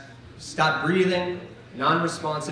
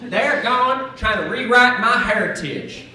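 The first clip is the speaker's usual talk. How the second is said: hillbilly cousin rant; 8 semitones higher than usual. Retold or imitated. Comic cousin complains his heritage is stolen, indignant hillbilly. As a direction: whine like an offended redneck. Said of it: "He's like".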